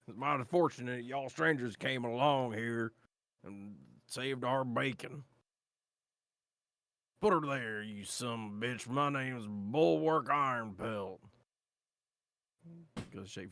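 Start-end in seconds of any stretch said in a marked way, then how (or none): 0.1-11.2 lightly voiced old-West dwarf; hearty frontier greeting, slowing on the name; a hint of a rough mountain man; gruff frontier dwarf. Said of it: "Bulwark's voice of Rufus".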